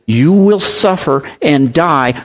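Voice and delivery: "You will suffer and die" spoken slowly and gravely, each word weighed; slow solemn quote. Retold or imitated. Preacher quoting Jesus to the congregation, slow and solemn. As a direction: lay out the promise slowly and solemnly. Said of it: "Jesus promised us".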